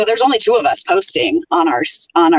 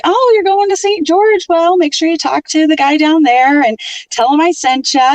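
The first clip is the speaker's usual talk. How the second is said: bright, high imitation of the CEO; a high, upbeat impression of the boss passing on a tip; mock chipper CEO; 9 semitones higher than usual. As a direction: lightly play the friendly boss, pitched up. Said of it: "He's like".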